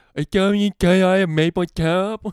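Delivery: put-on Canadian accent, very high and loud. Joking about how Canadians sound, doing a mock Canadian accent. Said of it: "Canadians be all like".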